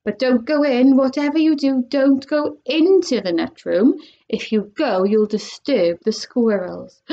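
lightly voiced Mr Wonka cautioning; Wonka warning. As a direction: warn them off the door. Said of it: "said Mister Wonka".

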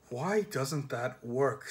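slow, puzzled and heavy; slow bewildered grumble. Acted. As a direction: sound baffled, drag it slowly. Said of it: "in a puzzled, heavy voice".

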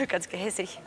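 laughing. Real, not acted. Laughing about the cockatoo's laugh.

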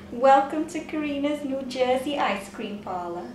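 put-on half-hearted New Jersey accent through laughter. Wife trying the parlour greeting, weak New Jersey accent. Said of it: "That was good".

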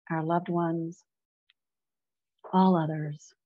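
measured meditation leader with long pauses; unhurried prayerful guidance, phrase by phrase; guided meditation. Real, not acted. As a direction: guide listeners gently into prayer, leaving space between phrases. Leads a meditation.

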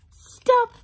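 high, loud command from the red light; loud stop. Acted. Red light tells the walkers to stop, loud and high. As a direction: call it out sharp like a signal. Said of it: "And the red light says".

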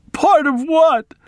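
put-on high, slow puzzled old woman; bewildered old maid. A narrator's reading. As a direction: ask it high and baffled.

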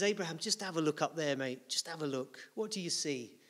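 soft, quiet, tender invitation; gentle God. Retold or imitated. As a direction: coax him to look up, softly. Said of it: "He puts his arms gently around him and he says".

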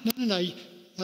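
John flustered, backing away from baptizing Jesus; protesting John. Retold or imitated. John protests baptizing Jesus, laughing and flustered. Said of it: "and John says".

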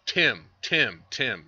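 a loud repeated naming of Tim; calling out a name. Retold or imitated. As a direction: call the name out. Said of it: "I'm like".

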